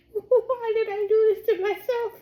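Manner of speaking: laughing disbelief, high. Real, not acted. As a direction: giggle through the question in mock despair. Laughing, exasperated over the food.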